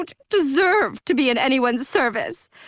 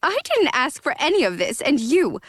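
sneering; 5 semitones higher than usual. Acted. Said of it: "she sneered".

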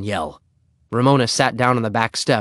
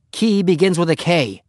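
hasty; 7 semitones higher than usual. A narrator's reading. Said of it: "Then he added hastily".

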